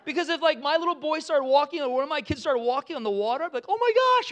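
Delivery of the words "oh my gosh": very high, loud parental excitement; hammed-up, thrilled gasp of words; pretend amazement. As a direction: cry out like an astonished proud parent. Excited parent watching child walk on water.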